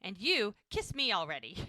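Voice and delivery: mock-bossy demand, punched at the start; lightly acted impatient command; giving orders. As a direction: playfully order someone about. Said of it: "like she's giving orders to everybody".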